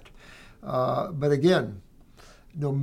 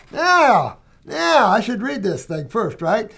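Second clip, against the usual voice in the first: excited yeah; 4 semitones higher, 4 dB louder, slower than usual. Real, not acted. Reacts to a listener's letter.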